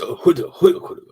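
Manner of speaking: a hint of a Korean accent, high and loud; clipped mock Korean accent; lightly done Korean accent gibberish. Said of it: "That's a fair Korean accent he just did".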